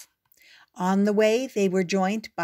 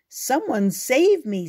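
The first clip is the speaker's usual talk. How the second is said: higher, louder mock-scared squeal; 6 semitones higher, 6 dB louder than usual. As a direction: squeal for rescue in pretend fright. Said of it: "squealed the other".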